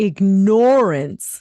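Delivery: heavy hit on the nor syllable in ignorance. Going through a line about ignorance being sickness: stress on nor in ignorance. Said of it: "You really put the emphasis over the nor".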